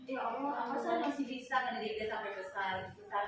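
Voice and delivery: soft, subdued plea to God; retold night-time plea; quiet private prayer. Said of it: "saya kadang-kadang seperti itu".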